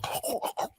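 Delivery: breathy, voiceless gasp imitating pepper burn; retold gasp for heat. Imitating her reaction to the hot bite, voiceless gasp. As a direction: mimic a quiet gasp after a hot bite. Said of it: "and she go".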